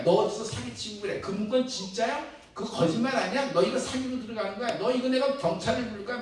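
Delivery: bully her with age like a mild mock yell; mock angry outburst. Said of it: "버럭 화를 내면서". (버럭 화내는 아저씨 흉내, 약간 큰 소리로)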